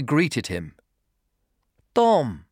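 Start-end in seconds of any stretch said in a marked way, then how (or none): 1.9-2.4 higher, warm and welcoming; warm greeting. Acted. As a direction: greet him like an old friend. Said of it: "she said warmly".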